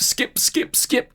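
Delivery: "skip, skip, skip" whispered, bored and fed up; muttered skipping. Retold or imitated. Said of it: "you're like".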